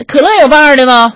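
hammed-up big-spender question; mock swagger. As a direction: show off about the cola. Showing off ordering vintage cola.

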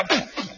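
two short stabbing puffs; imitated dagger stabs. Father striking back with a dagger, imitated stabs. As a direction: mimic a blade going in. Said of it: "两匕首".

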